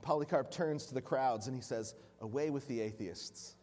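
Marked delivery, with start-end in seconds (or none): 2.2-3.6 softer, lower, with a laugh in it; ironic laugh. Acted. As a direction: toss the words back with amusement. Polycarp turns the words around.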